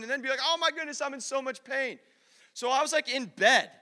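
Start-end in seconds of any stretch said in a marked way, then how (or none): 0.4-2.0 screaming. Retold or imitated. Preacher imitates brother going on all night, mock screaming. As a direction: imitate a melodramatic cry of pain. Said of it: "him screaming".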